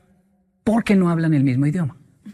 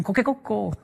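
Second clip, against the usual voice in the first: soft, higher coquecoco crow; a softer imitation of the crow; Japanese rooster crow; 4 semitones higher, 6 dB quieter than usual. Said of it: "ellos escuchan". (canto de gallo suave, coquecoco)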